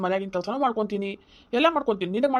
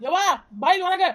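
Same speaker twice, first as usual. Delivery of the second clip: loud call to mother, higher; 6 semitones higher, 4 dB louder than usual. Acted. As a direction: shout for her to come out. Son calls mother outside.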